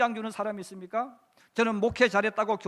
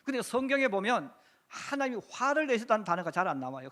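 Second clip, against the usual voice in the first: ordinary talk, nothing marked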